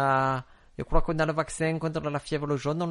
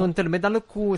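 higher and louder, a hammed-up Spanish accent; mock Spanish accent; 6 semitones higher, 4 dB louder than usual. Spanish accent to tease his cohosts about the vaccine. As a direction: put on a jokey Spanish accent. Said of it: "un peu espagnol, là, c'est ça?".

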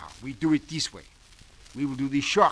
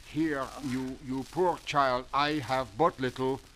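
melodramatic actor; 4 dB louder, slower than usual. Acted. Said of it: "the audience is crying".

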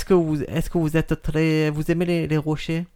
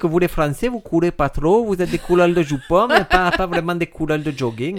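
fake Italian accent; 3 semitones higher than usual. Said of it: "tu parles très bien le faux italien".

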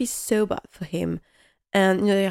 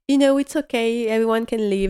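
imitating Carson; 4 semitones higher, 4 dB louder than usual. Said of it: "he's like".

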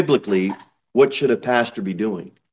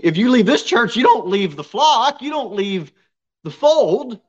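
fervent emphasis; 11 semitones higher, 3 dB louder than usual. Real, not acted. Pastor stressing you stay saved.

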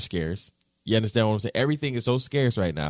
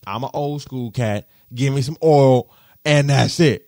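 retold brush-off; 7 dB louder than usual. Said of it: "I was like".

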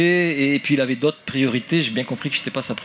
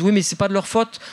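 higher-pitched, lightly acted parent; parents' voice; 5 semitones higher than usual. Parents excusing their children's French accent, lightly voiced parent. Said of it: "alors les parents disent".

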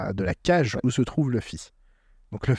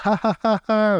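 mock laughter; 9 semitones higher, 3 dB louder than usual. Mimicking the trio's laughter.

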